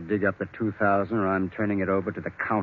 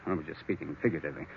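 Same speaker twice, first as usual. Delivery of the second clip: quick, softer, with a laugh; 5 semitones lower, 11 dB quieter, much faster than usual. Acted. Lawyer covering his murder talk, laughing it off. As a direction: brush it off lightly and fast.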